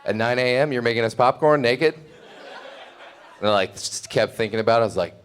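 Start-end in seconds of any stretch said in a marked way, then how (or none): 0.0-1.9 incredulous. Retold or imitated. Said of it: "And then she goes".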